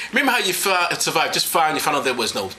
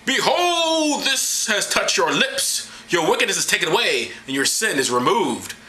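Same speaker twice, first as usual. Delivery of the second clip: theatrical angelic declaration; grand seraph pronouncement; 4 semitones higher, slower than usual. Acted. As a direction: proclaim it with mock solemnity. Voices the seraph.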